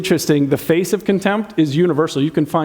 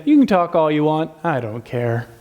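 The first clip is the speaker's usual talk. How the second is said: a smug brush-off to a partner; 3 semitones lower than usual. Retold or imitated. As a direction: brush them off smugly. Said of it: "smug eyes that say".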